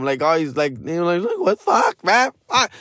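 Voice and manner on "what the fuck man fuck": high-pitched mock-exasperated whine; mad. Kid left waiting for his mom, high mock-angry whine. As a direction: act out a kid fed up with waiting. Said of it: "I was all mad at my mom".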